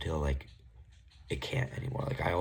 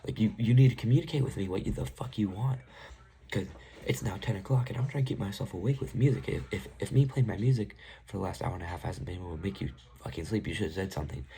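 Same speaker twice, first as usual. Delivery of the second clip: retold rant; 4 semitones higher than usual. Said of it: "I'm like".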